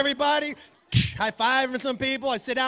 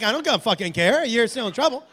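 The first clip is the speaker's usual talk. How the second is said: unmoved parent; 4 dB louder than usual. Acted. Parent overruling the protesting kid.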